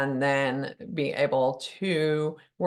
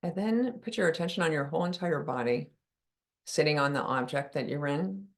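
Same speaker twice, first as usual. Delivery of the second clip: softer, calm meditation voice with long pauses; guided meditation; 4 dB quieter than usual. Acted. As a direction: ease listeners gently into relaxing.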